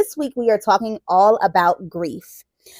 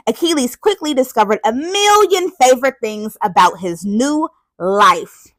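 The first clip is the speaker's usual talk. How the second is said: animated storybook narration; 3 semitones higher than usual. Acted. Teacher reads boy scooping up puppy, animated storybook narration. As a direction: savour the happy meeting for children. Reads picture book to children.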